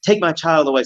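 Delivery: mock compliance. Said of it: "no one's gonna rush and like".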